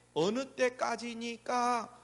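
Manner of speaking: slow, drawn-out mock lament; imitated lament. Sufferer asking God how long, slow lamenting. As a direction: stretch it out as a weary plea. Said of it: "이렇게 탄식할 수밖에 없어요".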